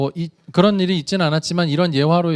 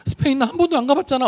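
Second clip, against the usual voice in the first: put-on much higher, whimpering little boy voice; tearful scared child; 9 semitones higher than usual. Son afraid of going to Spain, higher whimpering child voice. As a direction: play a frightened son on the verge of tears. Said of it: "울먹울먹하면".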